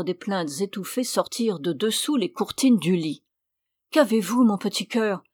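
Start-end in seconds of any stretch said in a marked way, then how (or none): 3.9-5.2 mari inquiet qui appelle, un peu plus fort; s'écrie inquiet. Acted. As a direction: appel soucieux à sa femme cachée. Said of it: "s'écria-t-il". (le mari s'écrie, inquiet pour sa femme)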